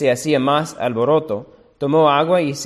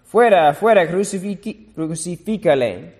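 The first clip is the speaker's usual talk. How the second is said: much higher, louder mob yell; crowd yelling; 5 semitones higher, 4 dB louder than usual. A narrator's reading. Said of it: "Pero ellos gritaron".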